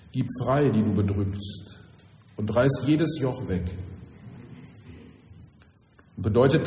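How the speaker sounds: solemn, measured Bible reading from the pulpit; scripture reading. Acted. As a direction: read it out formally, phrase by phrase, with pauses. Liest den Predigttext vor. (feierliche, getragene Schriftlesung)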